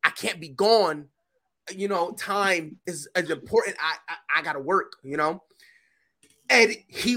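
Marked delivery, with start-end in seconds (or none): 0.0-5.4 scared pleading. Retold or imitated. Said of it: "I was like".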